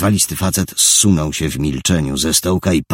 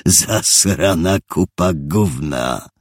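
slow, contemptuous sneer; insulting sneer; slower than usual. Acted. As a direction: drag out the insult. Thug insulting Richard.

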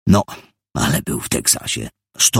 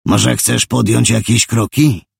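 higher, louder, taunting; provoking taunt; 6 semitones higher, 4 dB louder than usual. Acted. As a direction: egg him on. Thug provoking a fight.

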